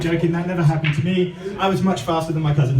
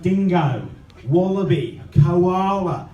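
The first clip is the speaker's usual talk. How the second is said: Australian accent; slower than usual. Shown as a demonstration. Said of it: "If you're from Australia".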